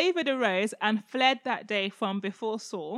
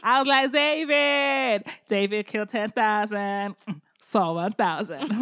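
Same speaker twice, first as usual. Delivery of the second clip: mock preacher; 2 semitones lower, slower than usual. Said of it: "Michael Todd video where he's like".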